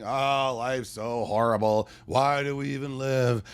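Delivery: mock moping kids. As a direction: play the melodramatic sulking child. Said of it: "They run around the house moping".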